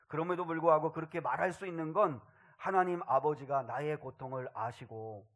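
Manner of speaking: usual speaking voice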